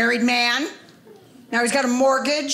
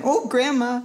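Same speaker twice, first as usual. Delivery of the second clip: put-on slow, sobbing little girl; a granddaughter sobs at Panda Express, mock crying; mock crying child; 3 semitones higher than usual. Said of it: "She's crying the whole time".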